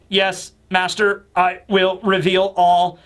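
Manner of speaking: very slow mechanical drone; robot voice. Retold or imitated. Kuma obeying Dragon, slow robotic monotone. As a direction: stretch each word like a programmed machine. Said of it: "in a robot voice".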